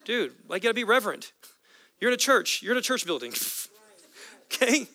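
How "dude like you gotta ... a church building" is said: a hint of a high, mock-stern hush; casual mock scolding, slightly higher; scolding bystanders. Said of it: "they're trying to shut him up".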